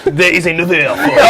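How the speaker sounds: put-on French accent. Card forfeit makes player talk this way, mock French accent. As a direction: play it as a comic Frenchman speaking English. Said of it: "it's still gotta do the French accent".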